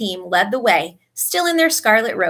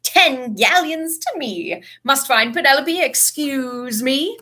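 high, drawn-out, self-satisfied; pleased and hurrying off; delighted; 5 semitones higher, slower than usual. A narrator's reading. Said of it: "looking delighted".

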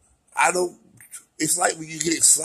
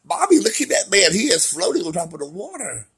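light mock child telling mommy, laughing at the end; a hint of an amazed child; imitating a little kid; 5 semitones higher than usual. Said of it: "little kids".

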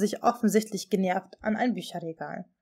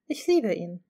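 completely calm. A narrator's reading. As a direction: say it with simple, calm certainty. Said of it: "meinte völlig ruhig".

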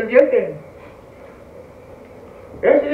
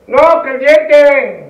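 slow emphatic; 3 semitones higher, 6 dB louder, much slower than usual. Retold or imitated. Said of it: "y me dice así".

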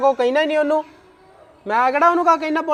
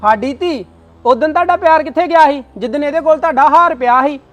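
angry accusing; 5 dB louder than usual. Acted. Husband accuses in-laws in a quarrel.

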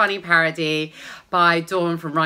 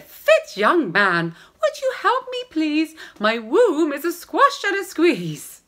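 pleading woman; 9 semitones higher, 4 dB louder than usual. Acted.

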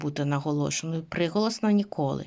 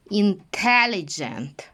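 slowish repeat; slower than usual. Shown as a demonstration. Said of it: "твердий дж".

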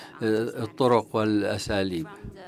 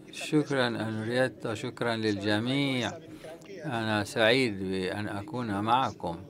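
dry cough; 2 semitones lower, 6 dB quieter than usual. Real, not acted. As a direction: voice worn from the flu, softer. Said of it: "إلى صحتي بعد هجمة الجريب والإنفلونزا". (صوت متعب بعد الإنفلونزا)

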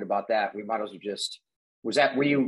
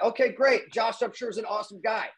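retold humoring reply; 8 semitones higher than usual. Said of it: "I'm like".

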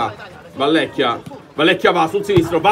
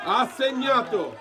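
breathless italian goal commentary; 8 semitones higher, slower than usual. Real, not acted. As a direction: explode with joy on the goal. Goal scored, commentator screams.

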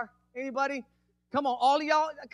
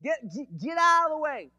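stuttered start rising into a high, loud yell; acted shout to move a blockage; 6 semitones higher, 5 dB louder than usual. Preacher yelling at his troubles to move, acted loud shout. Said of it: "I can yell at them".

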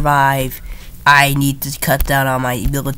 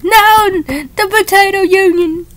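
high mock voice; 4 dB louder, slower than usual. Mock outrage in strategy game.

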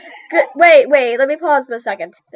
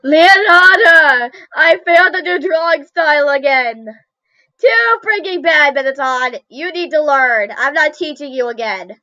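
dramatic mock quarrel; 3 semitones higher than usual. Failed pupil and Leonardo argue over lessons, dramatic mock quarrel. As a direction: play a hammed-up scolding match.

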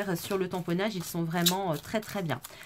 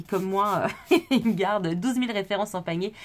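laughing; 4 dB louder than usual. Real, not acted. Self-mocking about her full basket.

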